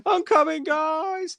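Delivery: high, loud heroic battle cry; heroic shout. Pretend. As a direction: yell it as a charging hero. Hero falling from the sky.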